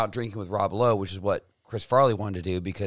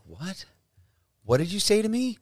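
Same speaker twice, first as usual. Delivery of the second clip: screaming rage at the waiter, high and loud; furious outburst; 7 semitones higher, 7 dB louder than usual. Retold or imitated. Farley yelling at the waiter for serving decaf, furious.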